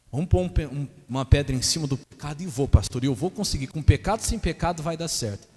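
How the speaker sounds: mock the husband's bravado. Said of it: "husband's voice mocked".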